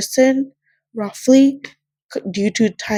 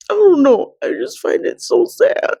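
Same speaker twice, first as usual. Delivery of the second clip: real tears, voice cracking high; can barely get the words out through crying; 10 semitones higher than usual. Real, not acted. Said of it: "now I just can't stop crying".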